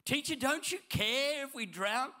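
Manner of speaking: high, loud desperate plea; panicked cry. Acted. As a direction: yell it like the boat is sinking. Panicked disciples crying out.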